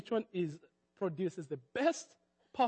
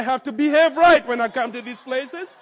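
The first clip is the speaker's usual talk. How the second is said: laughing; 6 semitones higher, 12 dB louder than usual. Real, not acted.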